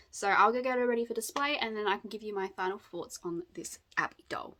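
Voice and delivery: flat robot voice. Real, not acted. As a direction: say it like a monotone robot. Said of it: "Why did I sound like a robot?".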